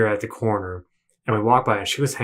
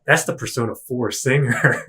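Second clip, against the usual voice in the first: laughing correction. Retold or imitated. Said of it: "He's like".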